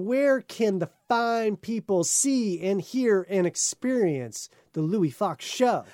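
upbeat podcast host wrapping up; slow, bright radio sign-off. Acted.

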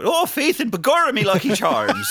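high, loud stage-Irish brogue while laughing; hammed-up leprechaun Irish accent. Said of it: "Now, that would be offensive".

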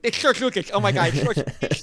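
hammed-up fanboy panic; starstruck fan. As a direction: play a grown man losing it over a celebrity. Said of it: "turned into pop star fans".

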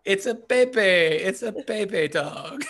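high hammed-up impression slipping into laughter; Catherine O'Hara's character voice. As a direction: keep up the affected character voice, breaking into a laugh. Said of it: "I love talking like, um, Catherine O'Hara's character".

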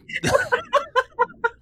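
loud high-pitched laugh; high laughter. Real, not acted. Laughing at the joke.

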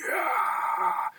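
mock child's yell; imitated yell. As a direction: belt it out like a wild kid.

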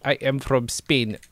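slow mock-Spanish accent; imitated put-on accent. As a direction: draw it out in a fake Spanish accent. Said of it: "that is the accent that you are doing".

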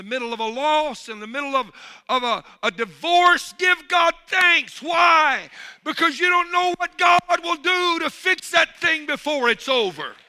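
loud, high preaching shout; preaching at full force. Acted. Preacher urging the church to thank God, shouting high. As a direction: drive it home to the crowd.

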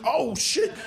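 high, acted yelp of fright; startled scream. Boy jumped by a masked teen, mock terrified shout. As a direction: shout it like a spooked kid. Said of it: "I run inside screaming".

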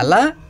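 "καλά" rising, with a thick Russian L; heavy Russian L. Shown as a demonstration. Singer mimicking her own accent slip, thick L in "καλά". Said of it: "θα χτυπήσει το λου, το ρώσικο".

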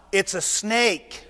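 slow, half-laughing objection; laughing protest. Acted. Moses laughing as he protests to God. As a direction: drag it out through a chuckle.

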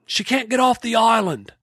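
high, easygoing New Zealand voice; laid-back Kiwi delivery; Kiwi accent quote. Retold or imitated. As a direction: say it like a carefree Kiwi rancher. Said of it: "And Laurie says".

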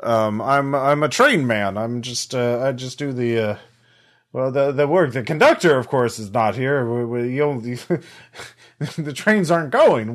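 a hint of a flustered old train worker; elderly drow voice. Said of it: "elderly drow voice, uh, ac-, slightly accented".

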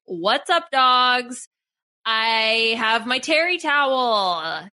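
hyped-up TV pitchman; over eager infomercial. Retold or imitated. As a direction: sell it like a late-night ad. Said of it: "this is an infomercial style thing".

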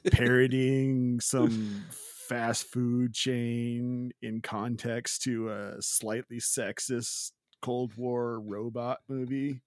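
slow, drawn-out stoner voice; lazy stoned drawl, slowly. Shown as a demonstration. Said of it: "except in my stoner voice".

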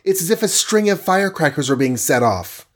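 high-pitched, amazed Wasp voice; heroine's high cry of wonder; astonished cry. A narrator's reading. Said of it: "cried the Wasp".

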